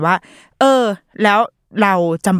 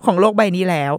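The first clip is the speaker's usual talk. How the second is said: sarcastic comment; 3 semitones higher than usual. Retold or imitated. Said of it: "บางอันก็คือแบบ".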